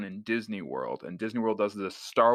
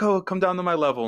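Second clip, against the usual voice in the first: higher, joking voice; imitating Davis; 10 semitones higher, 4 dB louder than usual. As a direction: tease the grown man kindly.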